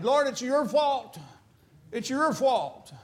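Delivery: a grieving sister blaming the Lord; voicing Martha. Preacher voices Martha's complaint.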